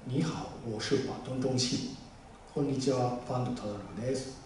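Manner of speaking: low, soft Japanese-style delivery of the Chinese greeting; 日本語の低い声で. Shown as a demonstration. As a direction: mumble it in a flat Japanese register. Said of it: "って言っても、ちょっと聞こえにくいし". (日本語の声の高さで控えめに)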